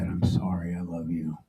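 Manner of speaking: soft unvoiced whisper, fading out; whispered goodbye. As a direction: whisper it like your last breath. Dying man's last words.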